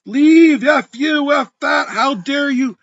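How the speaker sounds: loud, high, angry bark of a comeback; retold fury. Shoved by the broker, snapping back high and loud. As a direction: hurl it back at him. Furious retort after being pushed.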